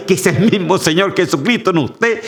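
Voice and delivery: ordinary talk, nothing marked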